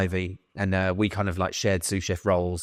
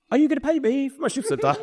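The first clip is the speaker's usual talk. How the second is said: laughing. Retold or imitated. Cheeky email to old chef.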